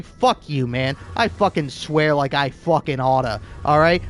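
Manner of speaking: hammed-up fury, half joking; mock tirade at an imagined critic; mock angry rant. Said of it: "And I would say".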